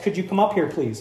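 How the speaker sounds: mild, unhurried request; misread sweet request. Acted. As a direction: read it as a harmless little invitation. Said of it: "I read it in the wrong tone".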